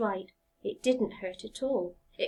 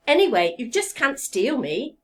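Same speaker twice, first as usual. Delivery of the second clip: wooden puppet voice; 2 semitones higher, 7 dB louder than usual. Acted. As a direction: squeak it out like a living log. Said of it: "I went on".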